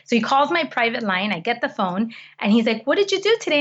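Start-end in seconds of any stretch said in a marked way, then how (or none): 2.9-3.6 imitating dad. Dad's voice on the phone, again.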